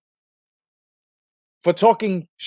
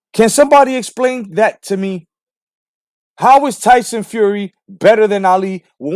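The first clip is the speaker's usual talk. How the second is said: exasperated demand; 3 semitones higher, 6 dB louder than usual. Real, not acted. Ranting demand at fans.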